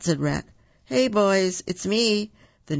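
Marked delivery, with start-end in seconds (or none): 0.9-2.3 new character's voice. A narrator's reading. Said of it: "said a new voice".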